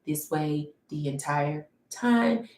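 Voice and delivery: flat monotone, slow; monotone voice, no inflection at all. Shown as a demonstration. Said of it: "they're just monotone".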